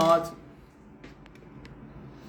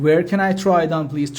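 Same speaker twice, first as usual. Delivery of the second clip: slow, carefully spaced English; slow teaching demo; much slower than usual. Shown as a demonstration. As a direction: spell it out slowly for learners. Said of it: "teacher repeats phrase for learners".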